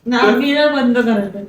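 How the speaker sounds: tearful protest, dragging at the end; crying, voice giving way on the last words; real crying. Real, not acted. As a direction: plead through real tears. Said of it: "माझी mummy रडलेली आहे".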